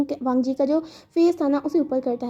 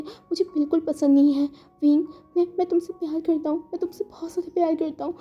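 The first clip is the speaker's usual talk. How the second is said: tearful confession; 3 semitones higher than usual. Acted. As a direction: confess love while holding back tears.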